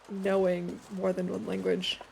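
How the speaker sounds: ordinary delivery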